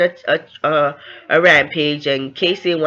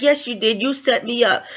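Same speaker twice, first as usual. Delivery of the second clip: higher-pitched insistent retort; retold accusation; 6 semitones higher than usual. Woman insisting he set her up, mock angry retort. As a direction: insist right back, pitch raised. Acted quarrel, she insists.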